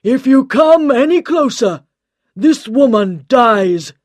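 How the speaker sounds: loud high threat, slowing at the end; threatening shout. Acted. Mister John holds Liz hostage, loud threatening shout. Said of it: "he shouted".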